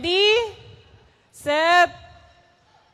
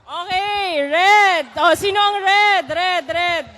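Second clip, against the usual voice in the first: loud host calling a team; 3 semitones higher, 6 dB louder than usual. Real, not acted. Game host calling the red team loudly.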